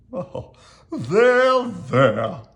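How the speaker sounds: drawn-out comforting coo, starting high; kindly soothing. A narrator's reading. Owl comforts the trembling monster, kindly soothing. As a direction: soothe like comforting a frightened child. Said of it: "Owl patted him kindly".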